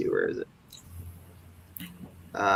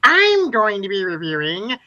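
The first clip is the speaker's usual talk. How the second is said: imitating a kid reviewer; 2 semitones higher than usual. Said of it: "why do you talk like that?".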